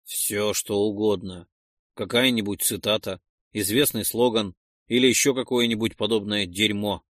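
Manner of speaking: calm after a heavy sigh; surprisingly calm. Acted. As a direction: let the anger drain out. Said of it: "На удивление спокойно сказал".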